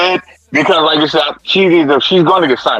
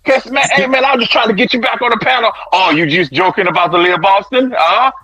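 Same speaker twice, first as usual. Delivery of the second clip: higher, huffy mock protest; retold worked-up caller; 4 semitones higher than usual. Retelling an argument about Leah Boston, mock worked-up protest. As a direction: lightly imitate a man getting hot. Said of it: "Brooke Gang was like".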